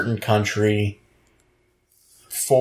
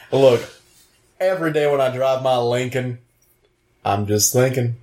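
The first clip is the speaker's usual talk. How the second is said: Matthew McConaughey. Pretend. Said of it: "Henry slash Matthew McConaughey".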